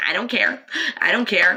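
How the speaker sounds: loud, insistent outburst. Retelling a father in a restaurant, retelling a loud outburst. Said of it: "he was very loud in the restaurant going".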